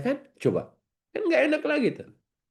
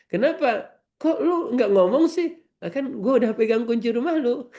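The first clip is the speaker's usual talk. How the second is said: mock outraged neighbour; 10 semitones higher than usual. The neighbour back from umrah complains about the missing chocolate. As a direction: play the neighbour who lost the chocolate.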